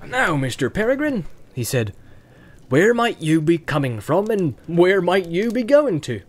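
rustic farmer quizzing a guest; countryman's lilting interrogation; questioning farmer. Acted. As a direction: question them pointedly but genially.

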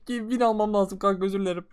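laughing apology. Real, not acted. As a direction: giggle out a fake sorry.

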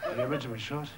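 quiet aside. Real, not acted. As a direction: drop out of the act and repeat it softly. Same line repeated as aside.

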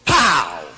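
punchy shouted "pow"; mock smashing noise. Little girl flattening her clay snowmen, punchy mock shout. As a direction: imitate a child smashing clay.

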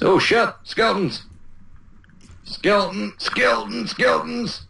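high-pitched singsong panic; playful falsetto alarm; mock alarm. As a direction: squeal a warning about the enemy. Alarm at attacking skeletons in game.

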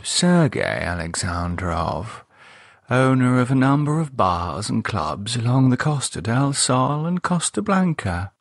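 lightly voiced older lady reading aloud; a hint of the prim wife; Cynthia's voice. Cynthia reading the captions to Gerald, lightly voiced lady.

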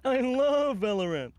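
bright eager Luca line. Acted. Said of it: "That's so convincing".

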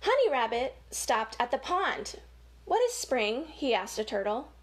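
lively storybook read-aloud; reading to children. Acted. Reading a rabbit story to children, lively storybook voice. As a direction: read it like story time for little kids.

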